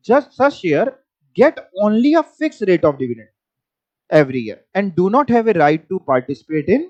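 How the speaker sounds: slow, deliberate dictation of a definition; slow textbook reading. Shown as a demonstration. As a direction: read it out word by word for notes. Reads textbook definition aloud.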